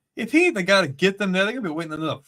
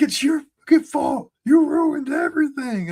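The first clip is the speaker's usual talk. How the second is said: raised, higher angry yelling; mock angry shout; 8 semitones higher, 4 dB louder than usual. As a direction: yell the blame at him. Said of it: "he's like".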